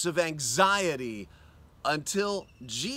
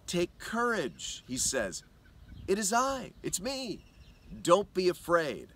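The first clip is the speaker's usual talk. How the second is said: tender reassurance. Acted. Imagining Jesus speaking to her.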